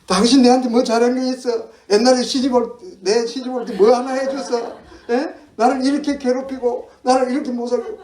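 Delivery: high, loud acted nagging; hysterical wife. Wife throws old grievances at husband in a fight, hysterical. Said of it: "히스테리가 많다 그러죠".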